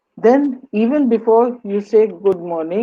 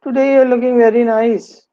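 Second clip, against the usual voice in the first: sarcastic; 3 semitones higher, 4 dB louder than usual. Shown as a demonstration. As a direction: turn the compliment into a complaint. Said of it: "It's not a compliment. It's sort of, "I'm complaining".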